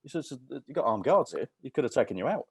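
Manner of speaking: lightly voiced scolding guard; hint of a stern guard. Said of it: "He said".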